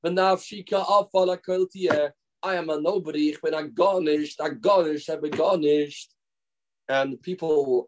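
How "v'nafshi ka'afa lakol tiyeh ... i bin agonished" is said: imitated devout self-abasement, repeated insistently; earnest praying, lightly acted; passionate, serious prayer. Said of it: "with such passion and seriousness".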